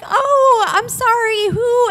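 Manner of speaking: high-pitched polite confusion; puzzled ex, imitated. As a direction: mimic the ex's taken-aback politeness. Ex meets the friendly stranger.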